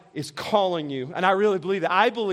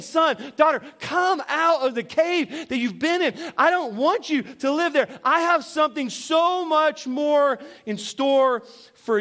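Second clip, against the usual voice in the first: lightly voiced God, tender and pleading; 4 semitones higher than usual. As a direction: speak as God calling a child home. Voicing God calling the listener.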